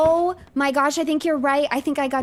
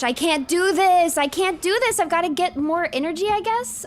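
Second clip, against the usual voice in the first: panicking; 5 semitones higher than usual. Real, not acted. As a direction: let the panic rise and stretch out. Panicking over running out of energy.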